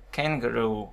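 "Kangaroo" stressed on -roo; teacher's clear "Kangaroo", final syllable stressed; stress on last syllable. Shown as a demonstration. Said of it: "nhấn vào cái zuzu này luôn".

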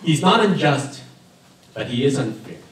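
normal talking voice

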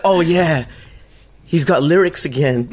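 high, excited exclamation; mock overjoyed. Fan hearing a new track from a rapper, mock overjoyed. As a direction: gush through laughter.

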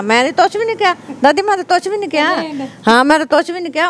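high-pitched mimicked child pleading innocence; imitated protesting child. Grandmother imitating her grandchild's complaint to her, high childlike protest. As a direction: voice a little one's high denial to an elder.

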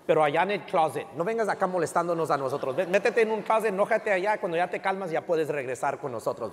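half-joking stern rebuke; mock scolding. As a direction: lay down the law with a grin. Scolding his father as pastor.

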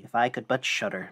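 mildly sad, understated lament; quite sad. Acted. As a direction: say it with a touch of sadness. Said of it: "said quite sadly".

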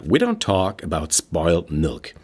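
slow, low, easygoing motherly calm; easy and relaxed. Retold or imitated. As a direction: let it roll off casually, no reproach. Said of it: "ganz easy und locker zu ihm nur gesagt".

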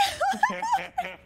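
high laughing fit. Real, not acted.

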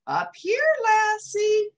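high, loud Scottish call; Scottish terrier. Acted. Jock calls down from the branch, Scottish. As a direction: shout down in a Scots burr.

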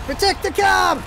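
rising urgent shouting; frantic callouts. Real, not acted. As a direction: bark orders at teammates. Frantic teamfight orders.

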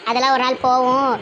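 low, soothing elder sister; older sister voice. Acted. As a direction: speak low and calm to the younger brother. Same elder voice held. (தம்பியிடம் தாழ்ந்த குரலில் ஆறுதலாகப் பேசும் அக்கா)

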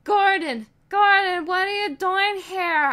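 high amazed cry; shocked awe. Acted. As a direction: gasp his name in disbelief. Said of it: "I asked with shock and awe".

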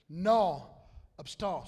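slow, drawn-out South Louisiana French; slow slang French from South Louisiana. Shown as a demonstration. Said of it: "slang French from South Louisiana".

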